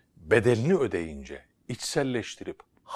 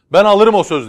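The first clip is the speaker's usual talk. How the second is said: high, loud call from a distance; calling from afar; 12 semitones higher, 20 dB louder than usual. Acted. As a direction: shout it across the crowd. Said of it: "demiş uzaktan".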